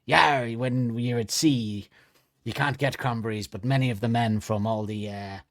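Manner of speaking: put-on seafaring doctor, drawn-out opening; Doctor Hawking. Doctor explaining life at sea to podcasters, comic character voice. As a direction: play the comic old sea hand, stretching the first word. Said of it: "Doctor Hawking".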